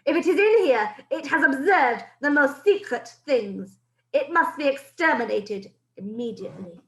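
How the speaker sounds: put-on a witch ordering the child destroyed; menacing witch. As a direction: order the kill with cold menace. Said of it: "screeched the Grand High Witch".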